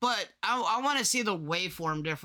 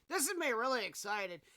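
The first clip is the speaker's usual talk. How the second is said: really excited; 4 semitones higher, 7 dB quieter than usual. Shown as a demonstration.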